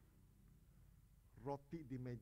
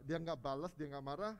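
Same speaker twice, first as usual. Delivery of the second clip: ordinary talk, nothing marked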